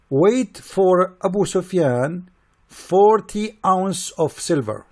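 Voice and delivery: slow, drawn-out decree, voiced apart from his own; mock Prophet's command. Mocking the Prophet ordering Bilal to pay, slow decree. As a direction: lay it down like a lordly order, slowly. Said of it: "he said".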